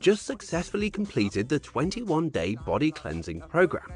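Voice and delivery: talking while jogging, breathing hard; while running. Real, not acted. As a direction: speak mid-jog, a little winded. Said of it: "I'm running right now".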